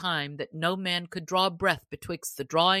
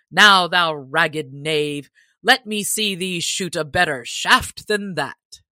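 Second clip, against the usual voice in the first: taunting; 7 dB louder than usual. Acted. Sheriff taunting the stranger.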